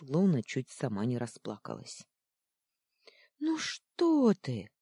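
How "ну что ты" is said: high, slow pleading coo; lamenting comfort. Acted. Луна утешает зверька, высоко и медленно причитая. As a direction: soothe him, near tears yourself. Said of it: "запричитала она".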